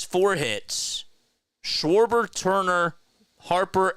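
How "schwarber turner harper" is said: names called out loud and high; excited. Real, not acted. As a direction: hype each name up. Excited roll call of hitters.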